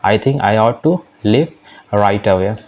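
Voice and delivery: slow, careful classroom English; deliberate teacher read-aloud; slow model reading. Shown as a demonstration. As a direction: spell each word out slowly for learners. Teacher reads model sentence.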